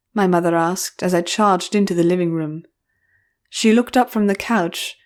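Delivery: usual speaking voice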